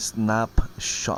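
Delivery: snapshot said very slowly and drawn out. Having a hard time saying the word snapshot: very slow snapshot. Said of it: "I have to say it really slow".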